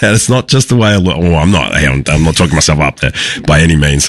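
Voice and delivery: hoarse, husky speaking tone. Real, not acted. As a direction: talk through a husky rasp. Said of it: "my sexy husky voice on tonight".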